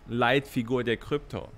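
dry sarcastic repeat of a title. Real, not acted. Streamer mocking crypto's so-called leading figure to viewers, sarcastic. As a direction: say the title with understated mockery. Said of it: "das ist sarkastisch gemeint".

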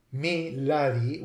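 "me, lady" said as "mee LAH-dee"; all short vowels. Shown as a demonstration. Lecturer showing speech before the vowel shift, "me, lady" as mee LAH-dee. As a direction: say lady in "me, lady" with an ah, not ay. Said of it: "pronounced all with short vowels".

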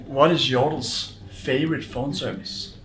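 telling a dad joke. Acted. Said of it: "a League of Legends dad joke".

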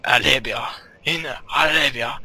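Arabia said with a jokey French-Arabian lilt, the r rolled toward an l; hammed-up foreign accent on Arabia; mock Arabian French accent. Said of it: "In my Arabian French accent".

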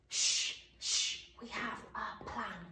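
whisper-soft beckoning; hushed sh. Shown as a demonstration. Teacher says it along with the children. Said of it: "Let's see whether you can do it".

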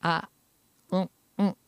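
alternating high cat cries and nasal hums; cat and sheep sounds. Shown as a demonstration. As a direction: jump between falsetto and nasal hum. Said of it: "っていう猫の".

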